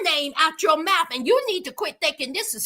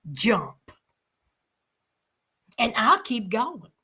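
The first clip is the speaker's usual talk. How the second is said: hissed Jump, much lower; whispered dare; 6 semitones lower, slower than usual. Real, not acted. Whispering a dare to a manipulative man. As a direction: dare him to jump, under breath. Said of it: "daring him".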